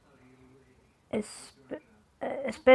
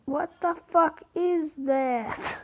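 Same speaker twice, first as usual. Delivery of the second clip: startled disbelief; 5 semitones higher, 3 dB quieter, slower than usual. Real, not acted. Reacts to something on screen.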